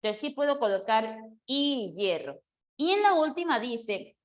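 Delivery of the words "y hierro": "y hierro" as a held ee, then yeh-rro; yeísmo. Shown as a demonstration. Teacher explains the valid form, ye sound in "y hierro". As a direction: hold "y", start "hierro" with a y consonant. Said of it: "suena con yeísmo".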